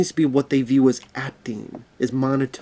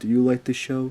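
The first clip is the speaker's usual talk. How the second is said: dead level, flat, emotionless monotone. Showing how boring talk sounds, asking a question in a flat emotionless monotone. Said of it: "Monotone, monotone. No emotion, no emotion. I'm talking like this".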